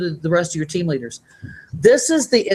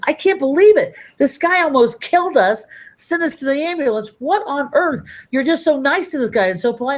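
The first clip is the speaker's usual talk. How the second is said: astonished; 9 semitones higher than usual. Retold or imitated. Passenger to taxi driver, in high astonished disbelief. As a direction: act out the shocked passenger, pitched way up.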